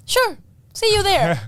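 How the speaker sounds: high, slow, drawn-out phone politeness; bluffing sign-off. Retold or imitated. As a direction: sign off sweetly high, stretching it out. Stunned but cheerful phone sign-off.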